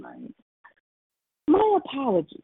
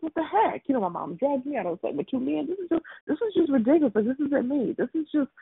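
higher, fast, put-on upset girl; mock the girl's frantic complaint; imitating the distraught girl; 6 semitones higher than usual. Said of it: "'cause she's like".

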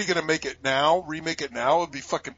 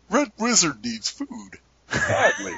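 slow, lightly voiced arcade-game announcer; a hint of game announcer, slow and measured; Gauntlet game announcer; 4 semitones higher, 3 dB quieter, slower than usual. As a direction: quote it like an old video game voice, drawn out. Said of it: "I was into Gauntlet".

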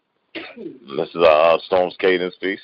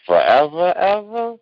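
each forever rising higher; climbing refrain; 12 semitones higher than usual. Acted. Poet ending his love poem, forever ever climbing ever higher. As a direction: lift every forever up higher than the last. Poem's climactic closing refrain.

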